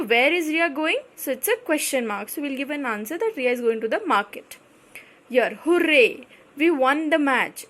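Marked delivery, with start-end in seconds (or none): 5.3-7.7 happy exclamation. Shown as a demonstration. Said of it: "This is an expression of happiness".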